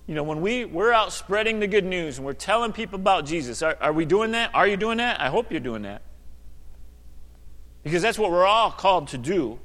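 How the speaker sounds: talking while chewing gum. Real, not acted. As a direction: speak around a piece of gum. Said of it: "I gotta get rid of that gum".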